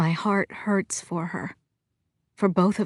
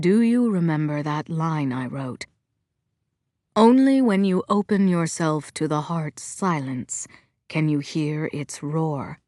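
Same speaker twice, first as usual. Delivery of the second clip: calm; 3 semitones lower than usual. Acted. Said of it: "adding his calmer tones".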